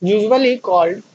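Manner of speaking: very slow, drawn out for copying; slow dictation. Shown as a demonstration. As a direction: stretch out "usually called" so students can write it down. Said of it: "जल्दी से लिखिए".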